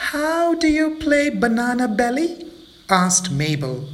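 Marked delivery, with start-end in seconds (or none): 0.1-2.5 high, eager monkey voice; curious little monkey. Acted. Mabel asking the monkeys, high and eager. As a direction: ask with wide-eyed curiosity.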